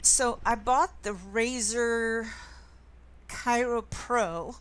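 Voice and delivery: loud, close to the microphone; right up on the new mic. Shown as a demonstration. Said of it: "Does that sound better?".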